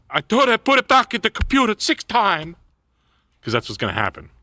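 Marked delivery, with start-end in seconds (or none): 0.1-2.5 mock flustered clerk.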